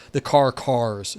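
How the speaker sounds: "the car cars" said slowly, each word drawn out; slow demo phrase. Shown as a demonstration. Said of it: "Like, the tree trees or".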